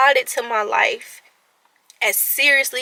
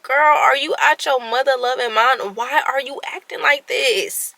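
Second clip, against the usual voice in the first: tough love pep talk; 4 semitones higher than usual. Retold or imitated. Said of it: "I had to stop myself".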